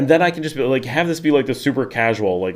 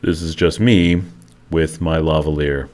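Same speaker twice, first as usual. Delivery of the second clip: slow, lower chill radio host; NPR radio voice; 6 semitones lower than usual. Shown as a demonstration. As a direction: keep the mellow mic voice going. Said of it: "makes me talk like that".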